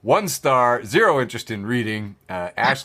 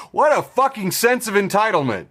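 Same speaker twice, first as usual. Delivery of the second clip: laughing outburst; 7 semitones higher than usual. Real, not acted. Host mocking a pundit, laughing outburst. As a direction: blurt it out through laughter.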